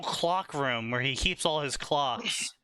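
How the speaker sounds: "clock" and "clocks" said with a clear L; careful pronunciation. Real, not acted. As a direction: keep the L distinct in "clock" and "clocks". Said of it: "I was specifically pronouncing it to not say that".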